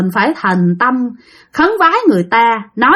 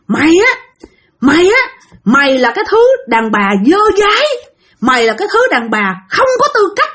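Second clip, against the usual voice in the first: higher, raised accusing rant; possessed scolding; 6 semitones higher than usual. Retold or imitated. Possessed Hưng berating Tiên, an angry higher scolding. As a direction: jab a finger and scold her hard. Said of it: "Chửi vậy nha".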